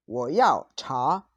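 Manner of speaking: very slow Mandarin, each tone drawn out; slow model pronunciation. Shown as a demonstration. Teacher repeating the tea order for students, slow model pronunciation. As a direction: say each syllable slowly for learners to copy.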